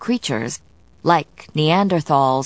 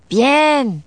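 housekeeper voice; 9 semitones higher, 5 dB louder than usual. A narrator's reading. Housekeeper answers in French.

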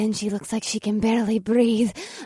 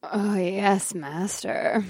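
soft unvoiced whisper; 3 semitones lower, 7 dB quieter, much slower than usual. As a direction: breathe it softly. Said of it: "The horned witch purred".

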